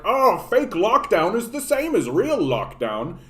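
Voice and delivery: a sarcastic lilting imitation of others; mocking sing-song. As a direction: parody the smug crowd. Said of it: "everybody's gonna be all like".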